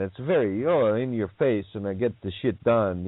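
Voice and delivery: lightly imitated Italian accent; a hint of mock Italian. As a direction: put on a brief in-your-face Italian accent. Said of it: "you get into the Italiano".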